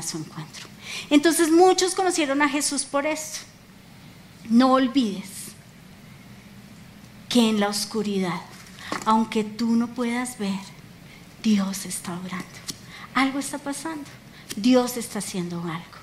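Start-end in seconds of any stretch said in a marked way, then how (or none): 4.5-16.0 low, hushed, unhurried encouragement; gentle reassurance. Real, not acted. Preacher telling believers God works in darkness, gentle reassurance. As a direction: lower the voice and reassure tenderly. Solemn closing reassurance to church.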